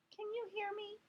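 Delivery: squeaked. Acted. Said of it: "I squeaked".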